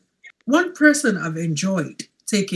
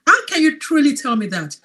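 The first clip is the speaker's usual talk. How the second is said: higher-pitched doubtful challenge; sceptical questioning; 5 semitones higher than usual. Retold or imitated. Coach recalls doubting the capsules, sceptical questioning. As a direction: question it in disbelief. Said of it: "I used to question that".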